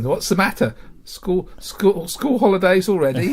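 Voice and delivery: put-on high, doddery old gentleman's voice; crusty old man. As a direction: imitate an ancient, crusty father. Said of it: "old and crusty gentleman in bed".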